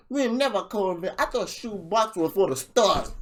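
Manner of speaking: lightly hammed-up rapper line; imitating the rapper's bar. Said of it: "after he's like".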